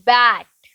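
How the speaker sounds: बैट drawn out slowly, falling in pitch; pronunciation demo. Shown as a demonstration. Teacher models बैट for the class, pronunciation demo. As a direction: say बैट low with a long, clear vowel. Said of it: "बैट को हम कैसे pronounce करेंगे".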